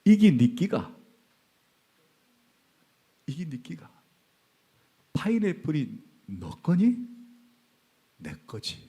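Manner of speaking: light Gyeongsang dialect, teasing question; God chiding in Gyeongsang dialect, lightly voiced; 경상도 사투리로 타이르듯. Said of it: "하나님 음성이 경상도 사투리로".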